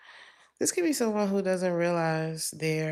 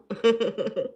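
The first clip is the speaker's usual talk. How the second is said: raspy smoker's cackle; smoker's rasp laugh; 4 semitones higher than usual. Real, not acted. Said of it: "I sound like I've been smoking Virginia Slims".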